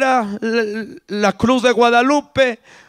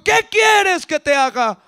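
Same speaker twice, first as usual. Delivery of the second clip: raised, slow question; calling out; 5 semitones higher, slower than usual. Acted. Jesus turns and asks.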